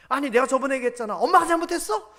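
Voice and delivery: pushy mother. Acted. Mother pressing son, fast.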